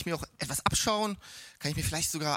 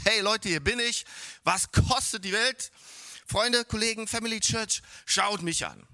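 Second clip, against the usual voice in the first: boastful call; 3 semitones higher, 4 dB louder than usual. Pretend. Imagined self-confident person shouting.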